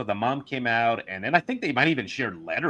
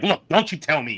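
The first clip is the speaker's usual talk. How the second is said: put-on irate woman voice, loud, high, scolding; 5 semitones higher, 5 dB louder than usual. Speaker imitates how a woman talks once she is angered, imitating an angry woman. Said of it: "until you piss her off".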